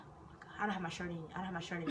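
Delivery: hushed, breathy panic; frantic hushed whisper behind the locker; panicked whisper. Retold or imitated. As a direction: whisper it so she won't hear.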